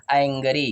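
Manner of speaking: "एंग्री" with a wide AE opening; correct open-a version. Shown as a demonstration. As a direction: say "एंग्री" as ANG-ree. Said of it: "उच्चारण हो रहा है आई में". ("एंग्री" खुले ऐ से)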